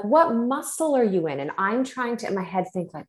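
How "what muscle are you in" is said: pitched high and puzzled; puzzled question. Retold or imitated. Inner voice questioning the acupuncturist, high and alarmed. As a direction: ask it in quick alarm, voice up high. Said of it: "I'm like".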